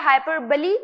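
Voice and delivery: हाइपरबली said as "hai-per-ba-lee"; हाइपरबली pronounced with a final ee; model pronunciation. Shown as a demonstration. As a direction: teach हाइपरबली, ending in "ba-lee". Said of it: "इस तरीके से इसे pronounce करना है".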